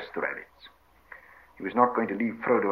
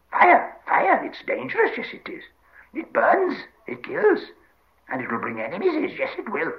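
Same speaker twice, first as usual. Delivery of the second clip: frightened Gollum; 3 dB louder than usual. Acted. Gollum warns that fire brings enemies, frightened wail. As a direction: warn in a panicked, crying screech.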